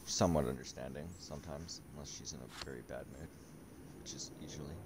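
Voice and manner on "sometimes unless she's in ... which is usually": whispered joking aside; whispering. Real, not acted. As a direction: drop to a whisper for the joke. Joking aside about wife's mood.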